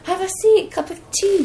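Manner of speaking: high, sweet mock hospitality; mock welcoming host. Radio staff welcoming her, high mock-sweet tone. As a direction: play the polite host offering tea.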